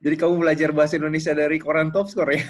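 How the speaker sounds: fast, loud amused question; laughing. Real, not acted. Host amused by the guest's answer. (sambil tertawa geli)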